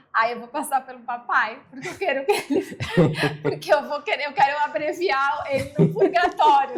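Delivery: fala de brincadeira com risos no meio; rindo enquanto fala. Retold or imitated. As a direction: risinho leve entre as palavras. Conta o que disse à irmã, rindo. (rindo ao contar o plano para a irmã)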